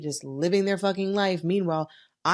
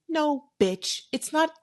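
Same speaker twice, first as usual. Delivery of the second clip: sassy rebuttal; 10 semitones higher, slower than usual. Real, not acted. Rebutting a fake apology.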